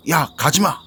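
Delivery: loud, high-pitched call to stop; urgent warning shout. Acted. Senior calls from behind to the junior running off, urgent shout. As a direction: call out sharply to halt someone. 선배가 뒤에서 후배를 말림.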